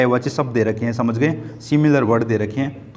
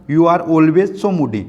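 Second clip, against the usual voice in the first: slow line reading; 2 semitones higher, much slower than usual. Acted. Quoting the line to explain.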